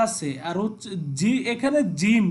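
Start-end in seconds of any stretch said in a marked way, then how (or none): 2.0-2.3 "জিম" said hard, with a firm j; very firm articulation. Shown as a demonstration. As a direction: hit the j of "জিম" forcefully. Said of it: "খুব শক্তভাবে". (খুব শক্তভাবে "জিম")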